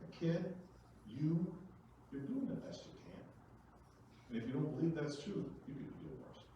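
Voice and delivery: mock pep talk. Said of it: "you look at it by saying".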